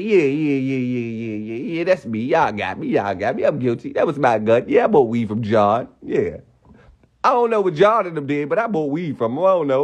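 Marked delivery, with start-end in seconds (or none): 0.0-6.4 low-pitched mock confession, yeahs tumbling out; confessing suspect. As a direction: imitate a suspect readily giving in. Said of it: "He went in there and said".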